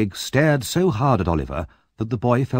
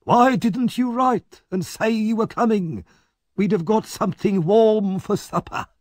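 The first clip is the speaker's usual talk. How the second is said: mock-polite Fagin; 12 semitones higher than usual. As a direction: welcome him back with fake charm. Fagin mocks Oliver.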